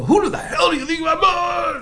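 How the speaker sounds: high, strained imitation of yelling; mock screaming. Security guards to trespassing driver, mock screaming. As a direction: yell it as an outraged guard. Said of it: "they start screaming at her".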